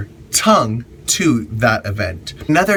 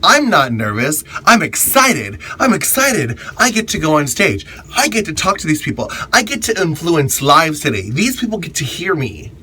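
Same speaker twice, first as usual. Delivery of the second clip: higher, eager self pep talk in a bright British-free voice of excitement; cheerful pep talk to yourself before going on stage; excited self-talk; 5 semitones higher than usual. Shown as a demonstration. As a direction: pump yourself up, pitch rising with eagerness. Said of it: "just tell yourself out loud".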